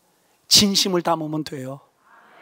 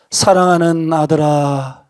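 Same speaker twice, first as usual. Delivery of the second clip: voice of God; 5 semitones lower, slower than usual. Retold or imitated. God's inner voice, retold.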